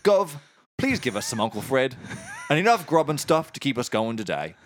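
matey Cockney mock prayer; Cockney accent. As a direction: recite a prayer as a chummy Cockney. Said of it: "in Cockney".

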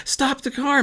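sudden high cry, stop the car; cried out. A narrator's reading. Girl crying out to her mom from the back seat, high and urgent. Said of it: "Maddie cried out".

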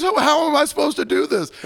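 put-on high, whiny drunk voice; Hunter impression. Drunk regular whining to the server, asking how to clean up. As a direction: pitch it up into a helpless whine. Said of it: "your Hunter impression".

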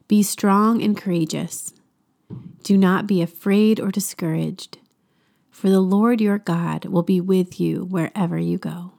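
slow, deliberate reading of the verse; slow scripture reading. Shown as a demonstration. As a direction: read each phrase slowly and let it land. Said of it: "I'm gonna read it to you slowly".

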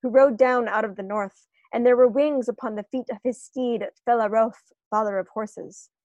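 measured, reverent reading of verse; poem recitation. Acted. Podcaster reciting Tolkien's verse to the cohost, measured poem reading. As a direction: read it as old verse, letting the last line fall away.

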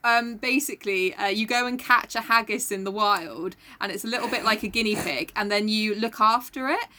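imitated Scottish girl explaining earnestly; deadpan explainer in a put-on Scottish accent. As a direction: do a Scottish accent, matter-of-fact and unhurried. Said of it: "okay, I am doing the accent".

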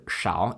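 shao in a low, dipping third tone. Shown as a demonstration. Teacher spelling out shao for learners, third tone. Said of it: "third tone".

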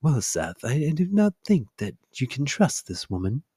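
a light attempt at a British accent; measured, half-hearted British accent. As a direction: try out a tentative British baboon. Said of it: "Give me your British accent".

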